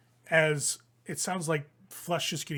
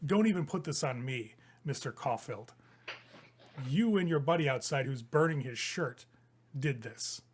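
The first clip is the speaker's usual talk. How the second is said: cold villain retort. Acted. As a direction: turn the blame back coldly. GM voices Vanathra retorting.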